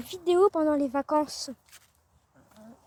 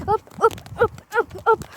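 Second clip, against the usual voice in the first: higher, louder sing-song hop hop; chanting hop to round up hens; calling the hens; 5 semitones higher, 4 dB louder than usual. Real, not acted. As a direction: call the chickens over brightly.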